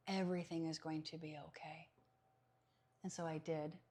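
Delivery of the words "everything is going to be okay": soft unvoiced whisper; whispered spirit message. Spirit passing a message to his brother, whispered. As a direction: breathe it gently like a comfort. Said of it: "I heard a man's voice".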